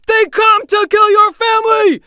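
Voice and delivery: bellowed battle cry. A narrator's reading. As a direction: rouse the warriors to fury. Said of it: "shouted Erlach".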